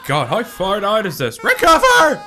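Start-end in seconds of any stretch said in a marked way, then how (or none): 1.4-2.2 high, loud, stretched-out yell; high frantic shriek; desperate scream. Pretend. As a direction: scream it as a last-ditch command. Urging falling character to recover.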